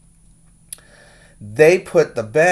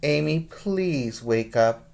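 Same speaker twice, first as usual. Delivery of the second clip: very nicely; 3 semitones higher, 4 dB quieter than usual. Acted. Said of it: "said very nicely".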